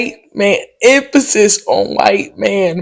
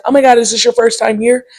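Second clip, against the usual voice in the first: mock chirpy stranger; 5 semitones higher than usual. White woman quoted.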